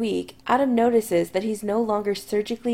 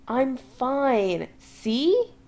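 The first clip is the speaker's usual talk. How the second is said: put-on grinning drunkenly; 5 semitones higher, much slower than usual. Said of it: "grinning drunkenly".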